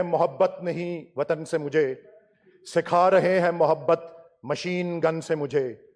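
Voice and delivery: measured Urdu verse recital in parliament; formal verse quotation, pausing between phrases; poetry recitation. Real, not acted. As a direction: recite the couplets with falling line ends.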